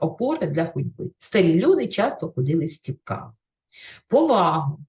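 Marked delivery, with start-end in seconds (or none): 4.1-4.8 Повагу with the stress on ВА, the middle syllable; teacher modelling the stress in Повагу; stress shown. Shown as a demonstration. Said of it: "теж зверніть увагу на наголос".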